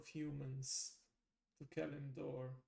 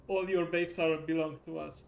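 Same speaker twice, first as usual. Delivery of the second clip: meme quote; 7 dB louder than usual. Retold or imitated. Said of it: "that famous meme".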